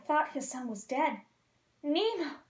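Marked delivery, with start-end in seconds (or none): 1.8-2.4 cry. Acted. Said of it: "he cried".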